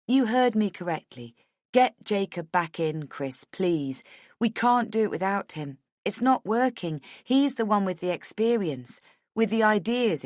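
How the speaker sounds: urgent, mildly agitated appeal; insistent Rachel. Acted. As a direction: press the boss to agree. Voices Rachel pleading with boss.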